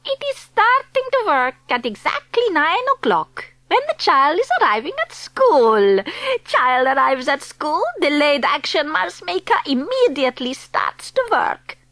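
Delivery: a hint of a foreign witch accent. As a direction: speak as the stern witch leader. Grand High Witch explains plan.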